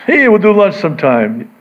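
breezy brush-off. Retold or imitated. Acting out the canned brush-off.

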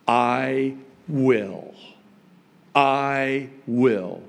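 "I" and "will" set apart, each weighted; weighty, spaced-out "I will"; emphatic declaration. Shown as a demonstration. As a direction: declare "I will" in two deliberate beats. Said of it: "the emphasis is on".

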